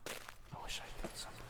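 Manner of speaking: soft unvoiced whisper. Real, not acted. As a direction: breathe it as a whisper. Whispered aside.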